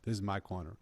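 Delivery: loud, insistent no no no, defending his spot; insistent refusal. Retold or imitated. Homeless man guarding his corner, loud and insistent. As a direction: push him away, this spot is yours.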